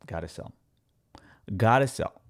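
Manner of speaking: hushed whisper to himself; whispered to self. Retold or imitated. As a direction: whisper it like a secret decision. Secret inner voice deciding to sell.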